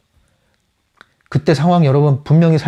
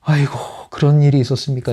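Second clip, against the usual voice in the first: fussy overreaction; 4 semitones higher, faster than usual. Retold or imitated. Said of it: "호들갑을 떨 필요가 없어요".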